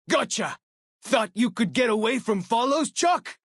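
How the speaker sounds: high, loud gloating catch; triumphant taunt. Acted. Companion catching a fleeing enemy, triumphant taunt. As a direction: crow over the caught enemy.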